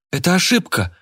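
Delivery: high, pleading shout of protest. Acted. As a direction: cry it out to stop the police. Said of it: "крикнул Афанасий".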